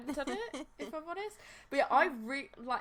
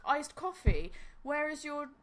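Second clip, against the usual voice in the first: mock rant; 3 semitones higher than usual. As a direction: rail at the shop like a wronged fan. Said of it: "I'm like".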